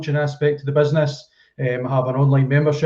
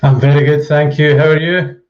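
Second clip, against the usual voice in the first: loud, professional telephone voice; prim and proper; 7 dB louder than usual. Real, not acted. Guest greeting the podcast host, prim and proper. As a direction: answer politely in your best telephone voice. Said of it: "very professional and prim and proper".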